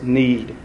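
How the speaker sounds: need set apart, said slowly on its own with a falling tune; stress on need. Shown as a demonstration. Teacher singling out one word for the class, stressing need. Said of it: "I emphasize that word there".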